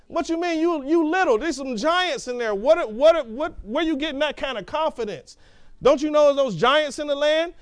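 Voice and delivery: mock the spies as if they're crazy; incredulous scoffing. Doubters scoff at Caleb and Joshua.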